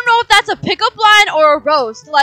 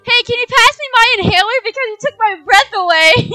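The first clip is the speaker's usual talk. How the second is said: cheesy pickup line; 7 semitones higher, 5 dB louder than usual. Acted. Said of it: "pickup line".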